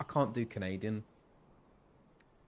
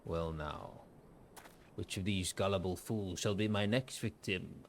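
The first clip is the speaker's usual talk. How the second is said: scheming villain; 2 semitones lower, 4 dB quieter than usual. Acted. First villain take, before picking accent.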